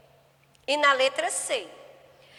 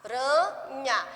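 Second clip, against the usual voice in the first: put-on teacher tapping out syllables for children; slower than usual. Shown as a demonstration. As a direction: tap out the three syllables of aranha. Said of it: "foi três pedacinhos".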